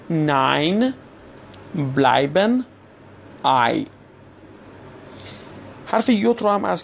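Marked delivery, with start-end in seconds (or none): 0.1-3.9 ناین، بلایبن، آی each with an "eye" glide. Shown as a demonstration. Teacher repeating examples, ناین، بلایبن، آی with clear "ai". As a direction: say ناین، بلایبن، آی separately, with pauses.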